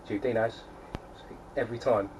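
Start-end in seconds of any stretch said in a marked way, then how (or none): 0.1-0.6 Tube Dinos with a light Antipodean twang, "Dinaus"; a hint of a New Zealand-Australian accent. Shown as a demonstration. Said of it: "it comes out like that".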